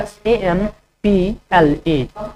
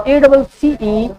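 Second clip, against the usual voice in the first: slow letter-by-letter dictation; slow spelling dictation; spelling out slowly; much slower than usual. Shown as a demonstration. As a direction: spell each letter clearly for students. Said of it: "कैसे होगा accelerate?".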